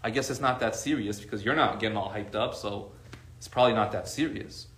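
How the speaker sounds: low, soft imitation of a settled child; calmed child. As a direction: imitate a child talked down by calm. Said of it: "seeing how calm you are".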